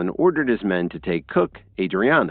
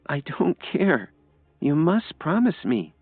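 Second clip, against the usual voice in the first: put-on shy young woman; 11 semitones higher than usual. A narrator's reading. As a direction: voice Lily high and timid. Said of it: "Lily said shyly".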